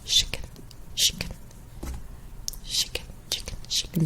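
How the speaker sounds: "chicken" said as "shicken" over and over; shicken repeated. Shown as a demonstration. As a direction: drill "chicken" with a sh start. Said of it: "That sounds so funny".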